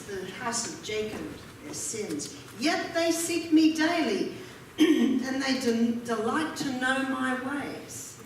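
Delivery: measured, solemn reading of the verse; scripture reading. Acted. Preacher reads Isaiah aloud to the congregation, solemn. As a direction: read the prophet's words to the congregation.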